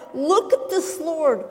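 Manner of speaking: bursting in to protest the unfair work; sister's indignant plea to Jesus for help; exasperated outburst. Acted. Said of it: "burst out of the kitchen ... and cried".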